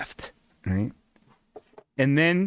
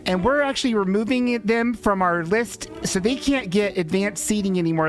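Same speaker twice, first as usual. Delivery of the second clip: chatty server; 7 semitones higher than usual. Retold or imitated. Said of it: "And she's like".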